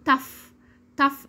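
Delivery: "tough" ending in an f sound. Shown as a demonstration. Teacher models words to repeat, "tough" ending in f. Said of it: "نسمع الكلمات ونردد".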